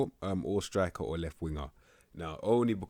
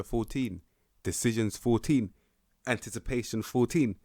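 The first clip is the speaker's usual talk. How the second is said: each stat called out higher and louder with growing excitement; excited stat reading; 5 semitones higher, 5 dB louder than usual. Real, not acted. Reviewing a striker's stats, getting more and more excited. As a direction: hype up every fourteen as you read it.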